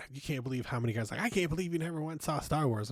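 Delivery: lightly voiced mock fanboy disbelief; mocking pushy guys. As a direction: rattle it off like a scandalised fanboy. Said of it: "She goes".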